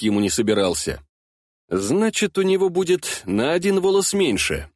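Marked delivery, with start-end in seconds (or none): 1.7-4.7 rough interrupting. Acted. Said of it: "грубо перебив, я надавил голосом".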